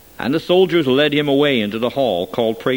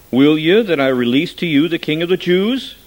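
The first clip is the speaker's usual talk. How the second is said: raised voice; 5 semitones higher, 6 dB louder than usual. A narrator's reading. Governor questions the crowd.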